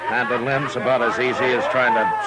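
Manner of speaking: talking through a rueful chuckle; words breaking into a laugh. Acted. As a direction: laugh at how helpless he is. Marshal laughs at his own helplessness.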